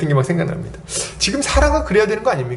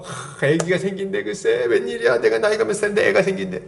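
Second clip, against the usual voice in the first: delighted disbelief. Acted. Acting elderly Sarah spreading news of her baby, delighted disbelief. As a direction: marvel at your own unbelievable good news. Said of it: "이러면서 막 소문내고 좋아갖고".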